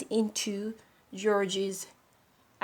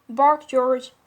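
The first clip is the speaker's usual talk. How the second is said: firm, louder command, higher; mother's command; 6 semitones higher, 6 dB louder than usual. Acted. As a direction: order the dog to bark.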